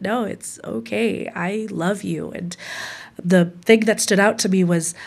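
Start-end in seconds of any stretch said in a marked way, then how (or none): 0.0-2.3 softly, tenderly reassuring; retold tender comfort, voice lowered; gentle reassurance. Husband reassures wife who just came out, gently and softly.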